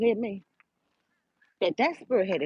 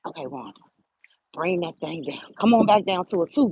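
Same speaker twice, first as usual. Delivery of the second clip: calming self-talk; 3 semitones lower than usual. Retold or imitated. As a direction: soothe yourself, bring it down. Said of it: "I began to say".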